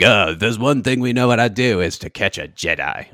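put-on clone trooper in a Kiwi accent; New Zealand accent. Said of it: "You've been working on your New Zealand accent".

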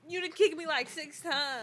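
high complaint. Real, not acted. Complaining about being kicked.

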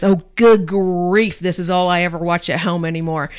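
exasperated. Retold or imitated. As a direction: groan it out, sick of it. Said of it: "My mom rolls her eyes and says".

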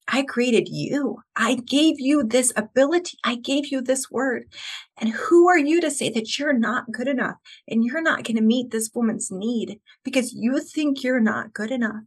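lightly voiced God. Host voicing God answering her self-doubt, lightly voiced, emphatic. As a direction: press each point home with feeling. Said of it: "And God says".

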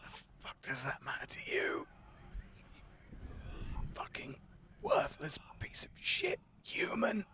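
venomous whisper; angry skull whispering insults at the bard; hostile whisper. Acted. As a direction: hiss the contempt out.

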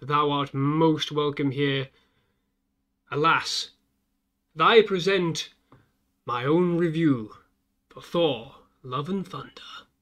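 slow, booming spooky host welcome; horror host. Acted. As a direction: greet the viewers like a crypt keeper. Mock-archaic channel welcome.

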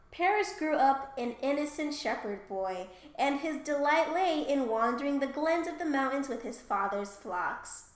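lightly formal story reading; reading aloud. Acted. Co-host reading a favourite line of myth, lightly storybook.

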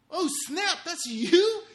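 retold jaw-drop amazement; shocked disbelief. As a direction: gasp it out at the old photo. Shocked at the before photo.

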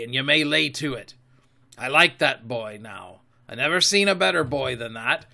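firm, emphatic pirate speech; lightly voiced sea dog in command; Silver, scornful captain. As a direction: lay down the law to a cowed crew. Silver asserts his command.

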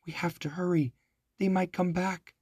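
urgent breathy whisper; boy whispering urgently while hiding. A narrator's reading. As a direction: hurry him along without a sound. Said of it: "whispered Jack".

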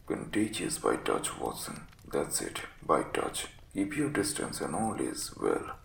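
low, croaky invalid with feverish energy; feverish croak. Acted. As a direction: croak out the warning with sickly urgency. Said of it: "He spoke now with a feverish energy".

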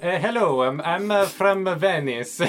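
hesitant put-on Italian accent; mild mock-Italian introduction, last words drawn out; halting attempt at an Italian accent. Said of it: "an Italian accent".

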